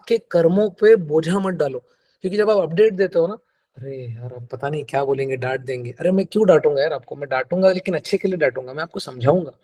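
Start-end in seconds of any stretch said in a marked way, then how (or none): 3.8-6.0 much softer, lower mock-anxious client; worried client mumbling. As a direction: mumble it like a client scared of a scolding. Client dreading the coach's update.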